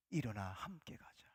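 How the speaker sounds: soft, low tender whisper; hushed voice of Jesus. Acted. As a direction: speak it gently, almost breathed. The Lord calls the fallen. (나지막이 속삭이는 예수님의 음성)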